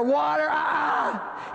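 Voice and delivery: ordinary talk, nothing marked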